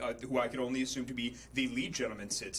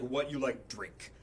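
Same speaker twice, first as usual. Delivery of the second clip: broken English; 3 semitones lower than usual. Retold or imitated. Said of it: "pretty much".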